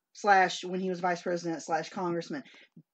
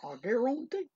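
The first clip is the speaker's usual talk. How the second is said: put-on Creole accent; 5 semitones higher than usual. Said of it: "as Justin, what's his name would say".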